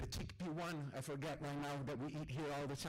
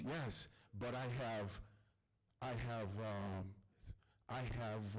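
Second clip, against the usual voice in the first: put-on lower, accented English of an Arab friend; Ahmed's accented English; 8 semitones lower than usual. Storyteller voicing his friend Ahmed at dinner, low accented English.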